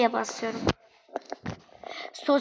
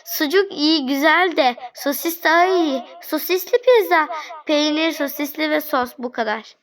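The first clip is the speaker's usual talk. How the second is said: reading angry customer's order; 3 semitones higher than usual. Retold or imitated. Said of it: "Abi hemen sinirlenmeye başladı".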